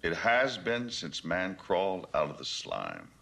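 low voice fading toward a near whisper, long pauses; hushed evangelism. Acted. Selling Beale a perfect world to preach, hushed evangelism.

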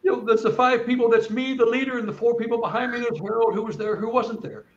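high, tearful voice; talking on through tears; overwhelmed, pitch stuck up high; choked up. Real, not acted. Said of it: "I'm getting all".

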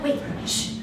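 whispered warning to be quiet; urgent hush. Acted. Hushing listeners.

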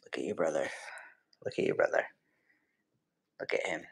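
low hushed whisper. Real, not acted. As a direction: hush it to the bird. Whispering to bird.

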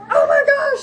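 squeaky high panic, laughing through it; panicked body voice. Pretend. Mom voicing her body panicking over healthy food, squeaky high. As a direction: voice her body as a frantic little creature. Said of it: "my body's like".

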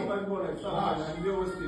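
quiet admonishing. Real, not acted. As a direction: keep it low and firm. Official hushing a heated complainant.

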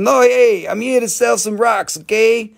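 high-pitched boxer impression; Mike Tyson. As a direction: pitch it up, mostly without the lisp. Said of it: "Do a Mike Tyson".

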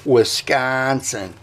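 Wisconsin said slowly in a local accent; slow Wisconsin accent, as a pronunciation demo; put-on Wisconsin accent. Shown as a demonstration. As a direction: show off how locals say "Wisconsin", accent drawn out. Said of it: "That is how you say".

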